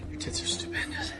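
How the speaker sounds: very high, soft falsetto; tiny high-pitched mock voice; mock ogling falsetto. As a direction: squeak it softly, imitating an ogler. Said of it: "looking at her shirt and going".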